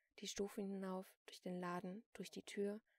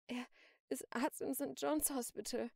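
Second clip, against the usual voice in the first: pained, higher, loud gasp; 5 semitones higher, 7 dB louder than usual. A narrator's reading. Hurt shopkeeper gives up the address, gasping. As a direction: force it out between gasps. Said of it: "keuchte die Verkäuferin".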